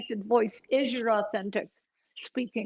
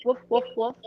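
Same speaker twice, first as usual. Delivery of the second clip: short woofs; dog barks; faster than usual. Shown as a demonstration. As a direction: bark like a dog. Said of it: "Play with some dog barks".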